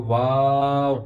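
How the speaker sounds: واو drawn out, lips round at start and end; stretched demonstration of واو. Shown as a demonstration. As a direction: round into واو and out again slowly. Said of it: "شروع میں بھی ہونٹ گول ہوں گے اور آخر پہ بھی".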